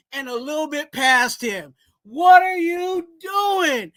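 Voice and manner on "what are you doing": slow, pained, crying-out shout; anguished shout. Real, not acted. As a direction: wail it in disbelief. Ranting at the quarterback.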